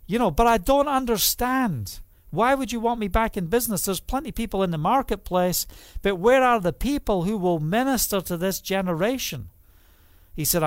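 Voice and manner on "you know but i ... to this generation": pleading prayer. Retold or imitated. Pleading with God in story.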